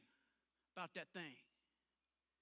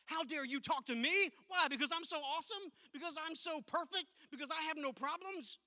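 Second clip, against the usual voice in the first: mock indignation; 5 semitones higher than usual. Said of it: "we'll sit there and say that to people".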